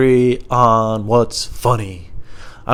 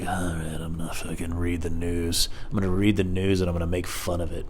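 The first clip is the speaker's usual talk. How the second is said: mock news host; 5 semitones lower, 8 dB quieter than usual. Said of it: "me being like".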